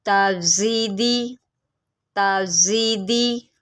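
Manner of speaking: ताजीदी slowly with a buzzing, whistled z; whistling z. Shown as a demonstration. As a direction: model ताजीदी carefully, letting the z sound whistle. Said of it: "इसकी सीटी के साथ इसको पढ़ना है".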